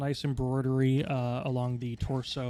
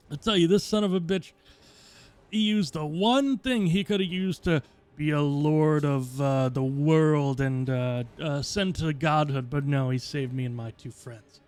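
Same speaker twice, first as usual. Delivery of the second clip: boisterous dwarf; 3 semitones higher, 6 dB louder than usual. Acted. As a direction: brag about the boy loudly. GM voices Thrumal.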